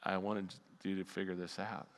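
low, very soft correction; hushed, patient divine reply; voice of God. Retold or imitated. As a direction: answer quietly from down low. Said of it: "God says".

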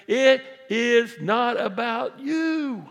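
it is not about you, slow, loud, every word stretched; slow emphatic shout. Real, not acted. Pastor tells the congregation it is not about them, slow and loud. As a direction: drive it home slowly. Sermon climax.

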